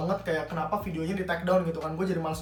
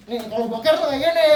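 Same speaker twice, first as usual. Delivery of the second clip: showing it off with a laugh, louder; laughing demo; 5 semitones higher, 5 dB louder than usual. Shown as a demonstration. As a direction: laugh through the demonstration. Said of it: "Kalau boker kayak gini". (peragakan sambil tertawa)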